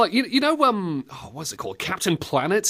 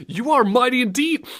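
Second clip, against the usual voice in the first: self pep talk; 7 semitones higher than usual. Pretend. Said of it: "come on, you, you can do it".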